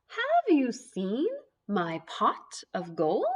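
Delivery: slow, lightly voiced leprechaun asking; a hint of a searching leprechaun. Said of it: "make our voices sound like a leprechaun".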